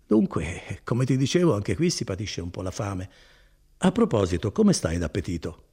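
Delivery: lightly voiced kindly cousin, proud of his work; Bortolo. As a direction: warm and boastful, an easy hearty tone. Bortolo remembers home. (Bortolo rassicura Renzo, voce bonaria appena accennata)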